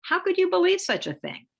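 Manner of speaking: hammed-up outraged disbelief; incredulous parent. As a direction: play the scandalized parent. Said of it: "If you say to a child".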